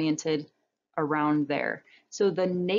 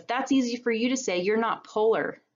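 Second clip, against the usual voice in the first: polar bear; 5 semitones higher than usual. Acted. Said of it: "And the polar bear says".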